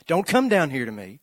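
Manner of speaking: loud, high commanding shout at the crowd; yelling at the people coming forward, loud and sharp; preacher yelling. Retold or imitated. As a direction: bellow it down the aisle like a fed-up preacher. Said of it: "he yells back at them".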